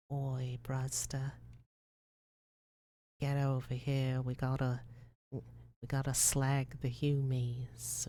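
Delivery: lightly voiced Cockney orc; a hint of Cockney accent, as a Warhammer orc. Warhammer orc rallying others against the Humies, mild Cockney accent. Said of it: "a Cockney accent saying some shit like".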